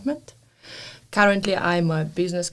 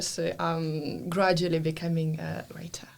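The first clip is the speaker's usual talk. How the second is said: a soft, modest whisper; whispered aside; 4 semitones lower, 7 dB quieter than usual. Real, not acted. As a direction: whisper it like a shy confession. Modest aside about her books.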